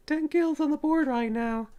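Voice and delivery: high hype announcer call. Acted. Repeats kill count announcement.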